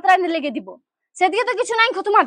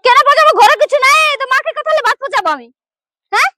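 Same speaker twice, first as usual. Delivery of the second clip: loud, irritated bride snapping back; annoyed bride answering back; angry retort; 2 semitones higher, 4 dB louder than usual. Acted. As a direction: fire it back, louder. Bride snaps back at elder.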